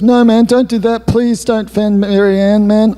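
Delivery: a light plea from a cringing mate; pleading drunk friend. Retold or imitated. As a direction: beg him not to phone, a hint of a drunk. John begging not to be reported.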